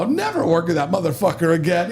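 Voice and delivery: high, heated mock Chicago accent. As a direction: imitate a worked-up Chicago guy swearing off someone. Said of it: "He's Chicago accent".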